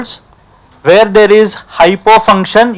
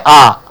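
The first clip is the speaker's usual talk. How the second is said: relaxed open ah; 3 semitones lower than usual. Shown as a demonstration. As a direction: let out an easy ah. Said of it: "Now say".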